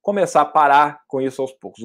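ordinary talk

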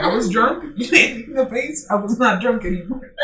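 laughing. Retold or imitated. Quoting friend, laughing.

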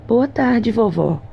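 put-on bright, high girlish greeting; lightly voiced young princess; sweet fairy tale princess. A narrator's reading. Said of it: "disse a princesa".

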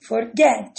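"forget" with the weight on final GET; stress on GET. Shown as a demonstration. Teacher shows the tonic syllable, stress on GET in "forget". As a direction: lean on the second syllable, for-GET. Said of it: "a sílaba tônica é o get".

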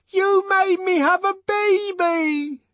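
very high, loud drawn-out scream; screamed accusation. A narrator's reading. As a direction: scream it above an uproar. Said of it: "she screamed above the uproar".

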